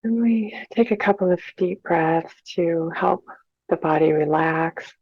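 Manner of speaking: calm, unhurried meditation guide with long pauses; measured, soothing breathing instruction; guided meditation. Real, not acted. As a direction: lead listeners gently through their breathing, leaving space between phrases.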